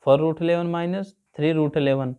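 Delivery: each word spaced out slowly for students to copy; teacher reading a sum aloud slowly for the class to write down; slow dictation. Shown as a demonstration.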